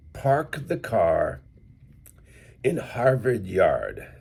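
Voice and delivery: standard American, every R pronounced clearly; newscaster English. Shown as a demonstration. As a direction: say "Park the car in Harvard Yard" with full, clear Rs. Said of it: "newscaster English".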